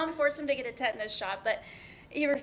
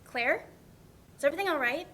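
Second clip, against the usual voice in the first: worried call. Acted. Worried answering late-night call.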